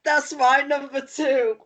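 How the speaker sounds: high, drawn-out excited exclamation. Real, not acted. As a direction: blurt it out, thrilled at the coincidence. Discovers they share the same pick.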